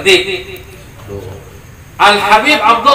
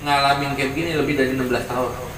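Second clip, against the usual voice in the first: calm, quiet saint's reply; 5 semitones lower, 10 dB quieter than usual. Retold or imitated. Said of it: "Habib Abdullah Al-Haddad bilang".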